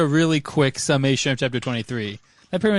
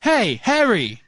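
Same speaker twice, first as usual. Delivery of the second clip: higher, louder, slow drawn-out greeting; Cedric calling out; 7 semitones higher, 4 dB louder, much slower than usual. Acted. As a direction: stretch out the hey to Harry as Cedric. Reading Cedric's greeting aloud.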